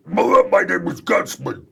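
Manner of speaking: slow, loud menacing robot; slow, loud villain robot introducing himself; Gutsman. Acted. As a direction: boom it like a proud dumb villain. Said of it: "I had a voice".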